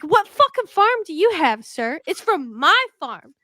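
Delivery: loud, indignant rant at the shopkeeper; mock furious rant. Ranting at Pierre for selling her produce, mock furious. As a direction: tell Pierre off for stealing your goods. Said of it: "I'm like".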